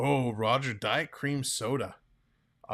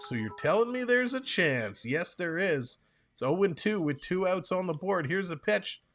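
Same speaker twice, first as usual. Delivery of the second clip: higher-pitched, eager call of the pitch; hopeful excitement; 5 semitones higher than usual. Real, not acted. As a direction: ride the hope of one more chance. Play-by-play of the last pitch.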